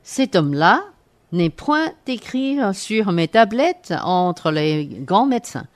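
pompous quack doctor, grandly declaiming; haughty aristocratic french. Acted. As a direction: lord it over the patient like a boastful doctor. Doctor examines patient.

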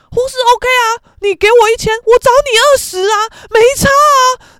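mock argumentative shout; imitated brash haggling. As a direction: make the offer as a defiant challenge. Mother haggling loudly in quarrel.

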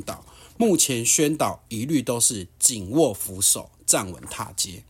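slow, deliberate news-report reading. Acted. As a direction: read the article out slowly like a report.

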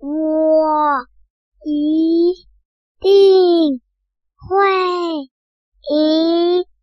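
slow, drawn-out, sure of winning; confident. Acted. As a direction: say it like you can't lose. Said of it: "乌龟却很有自信地说".

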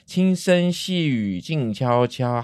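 slow, drawn-out coaxing, pitched a little up; hushed-speech reminder. Shown as a demonstration. Host asking children to keep voices down, slow coaxing. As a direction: stretch each word to settle noisy children.

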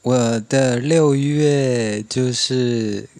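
usual speaking voice

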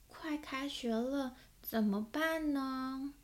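a mild worried mother's sigh of a question. Acted. Mother asking what to do as school nears, softly worried. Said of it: "阿文的妈妈担心地问".

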